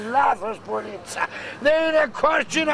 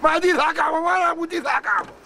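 raised, higher-pitched lament; despairing wail; 4 semitones higher than usual. Acted. Man lamenting his shame to the woman, despairing wail. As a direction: wail helplessly in mock tragedy. Ashamed man wails in a quarrel.

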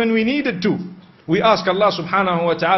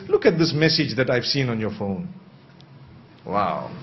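gentle loving words; 2 semitones lower than usual. Shown as a demonstration. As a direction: coax him kindly before raising the issue. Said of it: "To show you that there is a way of speaking".

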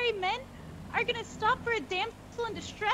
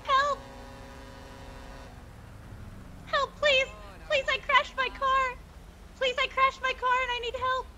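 pretend distress screaming; 3 semitones higher than usual. Decoy flagging down soldiers for help, pretend distress. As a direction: call out slowly as a staged damsel in distress. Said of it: "scream bloody murder for help".

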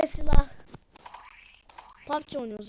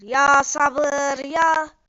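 louder exasperated cry; exasperated outburst; 5 dB louder, much slower than usual. Real, not acted. Gamer fed up with teasing players, loud outburst. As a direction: let the frustration burst out.

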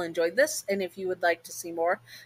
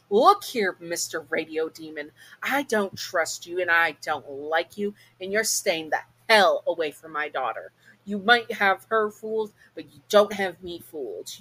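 growled warning. Acted. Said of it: "You growled at him".

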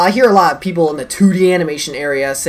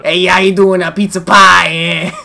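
put-on Brooklyn accent; 5 dB louder than usual. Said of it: "Mario from Brooklyn".

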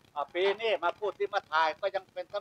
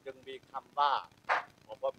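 solemn funeral speech; 4 semitones lower than usual. Shown as a demonstration. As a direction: speak reverently of a mother's grace. Demonstrates his funeral speech. (พิธีกรงานศพ พูดเบาซึ้ง)

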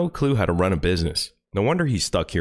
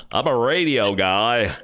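mock radio guy. Mocking a podcast host as a pompous radio voice. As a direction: play the self-important radio host. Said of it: "Let me talk like this".

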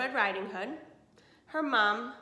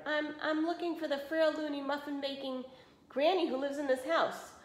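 higher, nervous stammer; nervous wolf voice, higher; 6 semitones higher than usual. Acted. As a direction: stutter it like a caught wolf. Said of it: "The wolf gasped and stammered".

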